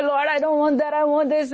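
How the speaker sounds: mock plaintive prayer on one held note; lightly acted pleading; crying out to God. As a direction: imitate someone begging the Lord. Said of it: "when you cry and say".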